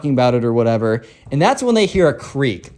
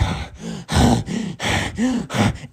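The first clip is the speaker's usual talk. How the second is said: exaggerated heavy huffs; huffing breaths; 5 semitones higher, 5 dB quieter than usual. Spoiled kid after his countdown fails, huffing. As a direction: huff repeatedly like a thwarted kid.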